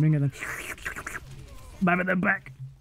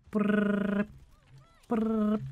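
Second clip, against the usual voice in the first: soft cutesy brrr; mock uwu brrr; 3 semitones higher, 4 dB quieter than usual. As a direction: try a cute engine buzz. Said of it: "hard to do a brrr in a Uwu voice".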